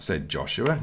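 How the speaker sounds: plain reading voice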